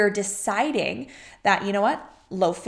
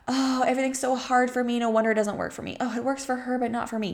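higher, faster whiny self-pity; mock the poor-me victim voice, pitched up; 4 semitones higher, faster than usual. Mocking her own old self-pitying voice, whiny and high.

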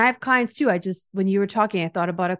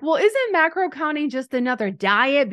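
higher, doubting voice of a skeptic; skeptical client; 6 semitones higher than usual. Retold or imitated. Host voicing a doubting client to the coach, higher and skeptical. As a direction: voice the doubter's pushback, pitched up. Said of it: "when people are like".

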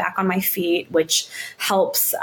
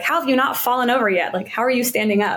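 quick, slightly raised incredulous questions; shocked; 4 semitones higher, faster than usual. Retold or imitated. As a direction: imitate a coach's mild disbelief. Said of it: "he was shocked".

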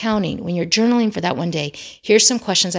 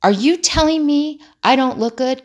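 higher, indignant retold outburst; angry; 8 semitones higher, 3 dB louder than usual. Son challenging whoever commented on his looks, angry imitation. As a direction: act out an offended son's disbelief. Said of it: "And he got angry".

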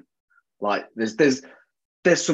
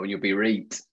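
casual Yorkshire "reet" for right; Yorkshire dialect; 4 semitones lower than usual. Shown as a demonstration. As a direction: drop in a touch of Yorkshire. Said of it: "I'm just chucking more Yorkshire in now".

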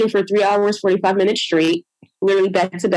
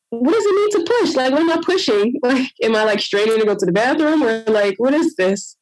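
pitched-up disbelief at the nurses; lightly voiced frustration, rushing; exasperated; 3 semitones higher than usual.

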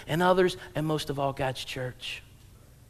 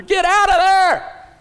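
high, loud, slow cry; warning yell; 13 semitones higher, 10 dB louder, slower than usual. Retold or imitated. Moviegoer shouting a warning at the hero. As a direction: yell at the screen to run. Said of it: "You're like".

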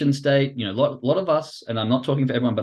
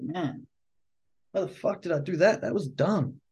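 softer, muted self-reproach; mock regret; 5 semitones higher, 5 dB quieter than usual. Trader twenty minutes later, quietly acting out regret. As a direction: act out hushed disbelief at yourself. Acted regret after calming down.

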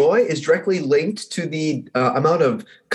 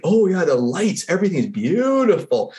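mild awe; 5 semitones higher than usual. Acted. Storyteller as Pip seeing the lights, mildly awed. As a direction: marvel lightly, stretching the words.

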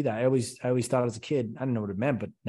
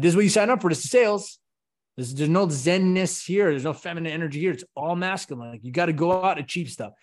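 militant sales boss; 3 semitones higher than usual. Retold or imitated. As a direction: drill the team like a strict sergeant. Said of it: "I'm a militant person in my sales team meetings".

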